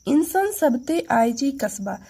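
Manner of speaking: said quickly as one phrase; fast run-through. Shown as a demonstration. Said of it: "fast कैसे बोलेंगे?". (तेज़ी से एक साथ)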